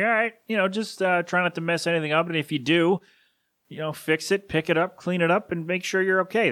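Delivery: quoting his uncle while choking up; tearful quote of uncle. Real, not acted. Recalling Uncle Ed's gentle words, voice breaking. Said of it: "He was like".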